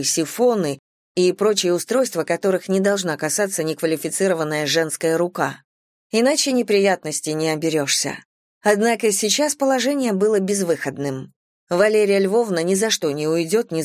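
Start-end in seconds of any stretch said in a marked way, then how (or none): none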